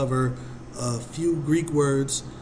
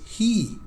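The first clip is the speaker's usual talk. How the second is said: "he." lifted much higher, leaning hard on it; stressed he; 9 semitones higher than usual. Shown as a demonstration. Teacher pointing out the word to the class, stressed high. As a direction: hit "he." high and firm to make the point. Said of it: "but he says".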